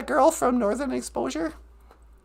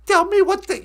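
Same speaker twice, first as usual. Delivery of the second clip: mock bad acting, louder and drawn out; hammed-up terrible actress; Thomas Builds a Fire's grandma; 3 semitones higher, 6 dB louder, slower than usual. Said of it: "her acting is just, it's off the charts terrible".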